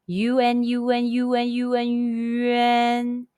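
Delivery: "U N" said over and over, then slowly drawn into "yuan"; "U N, U N, yuan" run together, landing on a slow "yuan"; U N blended into yuan. Shown as a demonstration. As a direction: slide "U" into "N" until it becomes "yuan", slow at the end. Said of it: "pronounce the English letter U and N one after another fast".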